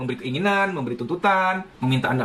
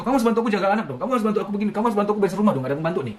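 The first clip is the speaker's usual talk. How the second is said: demanding spouse; 4 semitones higher, much faster than usual. Acted. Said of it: "Diharuskan ini itu".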